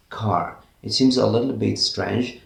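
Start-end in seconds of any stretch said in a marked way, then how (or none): 0.1-0.6 "car" with the R swallowed, pitched lower; British-style "car", no R at the end. Shown as a demonstration. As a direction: say a low "car" without sounding the final R. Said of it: "the letter R is swallowed".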